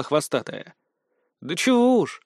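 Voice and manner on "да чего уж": higher, sighed-out reply; girl breathing out a resigned answer; exhaled. A narrator's reading. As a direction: breathe out the words in relief. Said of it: "выдохнула пострадавшая".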